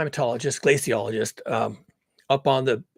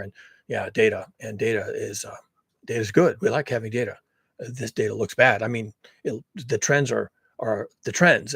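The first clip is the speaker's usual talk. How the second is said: mock careful scientist, low and halting; sober and careful; 3 semitones lower than usual. Careful climatologist hedging to an interviewer, mock sober. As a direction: hedge cautiously, imitating a guarded interviewee. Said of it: "he's very sober and he's very careful".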